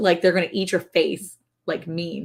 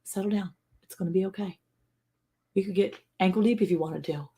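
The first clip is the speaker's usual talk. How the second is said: put-on reassuring a child; 6 dB quieter than usual. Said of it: "I'm like".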